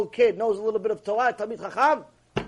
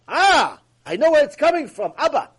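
loud, raised exclamation of discovery; acted realization; 6 semitones higher, 7 dB louder than usual. Believer realizing where the problems come from, exclaiming. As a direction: exclaim it as a sudden insight.

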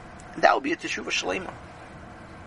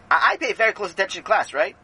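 anxious Sammy; 2 semitones higher than usual. Acted. Sammy pleading his case.

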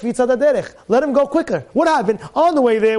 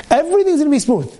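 ordinary talk, nothing marked

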